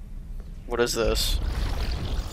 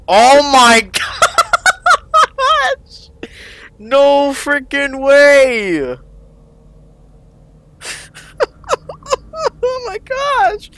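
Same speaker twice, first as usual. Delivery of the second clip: laughing in disbelief; 2 semitones higher, much slower than usual. Real, not acted.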